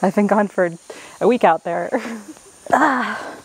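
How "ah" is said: ordinary talk, nothing marked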